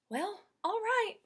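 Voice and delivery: high, slow reluctant agreement; Amelia Bedelia. Acted. Maid agreeing to follow the list, reluctant. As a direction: give in with a shrug. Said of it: "said Amelia Bedelia".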